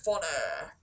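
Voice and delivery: muffled behind cupped hands; talking through hands. Shown as a demonstration. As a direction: speak through your hands. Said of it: "I'm talking through my hands, so I sound very funny".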